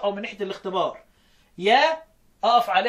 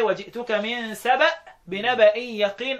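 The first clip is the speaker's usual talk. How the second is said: slow, drawn-out Quran recitation; slower than usual. Shown as a demonstration. Teacher reciting the verse slowly for students. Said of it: "ويقرأ يقول إيه".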